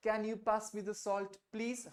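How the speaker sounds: "Can you pass me the salt, please?" very slow, each word weighted, question tune on "please"; every word stressed, slow. Shown as a demonstration. Teacher slowly models stressed polite request for students. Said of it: "हर एक शब्द पे ऊपर अच्छा सा stress देना है और इसको प्लीज करके क्वेश्चन का टोन देना है".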